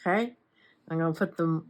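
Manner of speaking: mumbling around a stitch marker; mouth full. Real, not acted. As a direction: talk with a marker held in the mouth. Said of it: "I've got the marker in my mouth and it's making me mumble".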